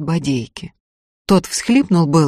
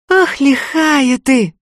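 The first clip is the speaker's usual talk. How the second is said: higher, slow drawn-out marvel; marvelling girl; 9 semitones higher, 3 dB louder, much slower than usual. A narrator's reading. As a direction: savour the daring of it. Tanka marvels at Ustinya.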